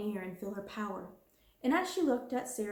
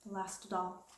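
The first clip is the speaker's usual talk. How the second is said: Sarah quietly repeating about her doll, mournful; mournful echo; 6 dB quieter than usual. Acted. Softer mournful repeat. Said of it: "her little mournful voice had an odd sound".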